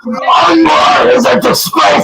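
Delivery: real screaming meltdown, voice breaking. Real, not acted. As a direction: lose it completely, yelling through tears.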